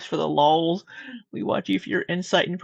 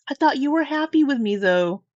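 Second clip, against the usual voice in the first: hammy wounded lover; dramatic reading; 7 semitones higher than usual. Pretend. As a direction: overplay the hurt, a bit higher. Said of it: "dramatic reading of these text messages".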